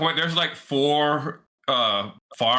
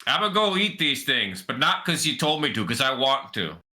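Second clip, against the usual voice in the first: lightly voiced stubborn rat; defiant rat. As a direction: grudgingly assert yourself as a rat.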